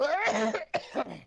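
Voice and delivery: sharp high hacking cough; coughing fit. Real, not acted. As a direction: choke and cough hard. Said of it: "oh, I'm choking".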